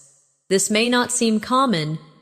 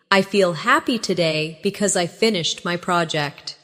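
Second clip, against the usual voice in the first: practice take; 2 semitones lower than usual. Shown as a demonstration. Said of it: "Practice these with me".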